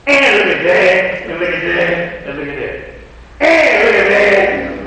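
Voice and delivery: sing-song accusing look-at-that; building to a shout of accusation; God pointing out sins. Retold or imitated. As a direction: chant each sin at the finger. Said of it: "And he said".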